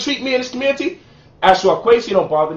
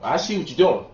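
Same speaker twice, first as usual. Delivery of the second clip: lightly voiced suspicious critic; mock their jealous challenge; imitating accusers. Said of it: "some Nuwaubians was like".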